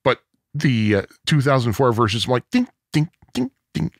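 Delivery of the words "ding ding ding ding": high, light imitated dings; laid-back tinkle. Comparing two versions, light laid-back dings. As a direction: tap out small high dings. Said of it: "a little too laid back".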